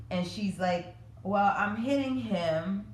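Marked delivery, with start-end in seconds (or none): 1.2-2.9 a light hint of a small child, slow and drawn out; imitating her daughter. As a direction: mimic the little girl's slow explanation. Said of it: "that's how she said it".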